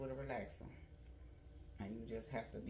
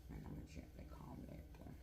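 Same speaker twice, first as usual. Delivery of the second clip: quick whispered narration while working; 14 semitones lower, 9 dB quieter, faster than usual. Real, not acted. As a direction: breathe it out fast and soft. Whispering while combing hair.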